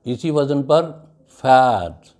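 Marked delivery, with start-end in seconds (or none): 1.4-2.1 "fat" with a short A vowel, firmly said; teacher's punched short-A "fat"; short A demo. Shown as a demonstration. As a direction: model "fat" louder, with short A. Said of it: "These are all short sounds of A".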